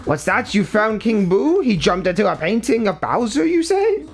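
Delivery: lightly voiced quirky old professor; Professor E. Gadd voice. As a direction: read it as the eccentric old scientist. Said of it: "harder to read when you're also trying to do a stupid voice".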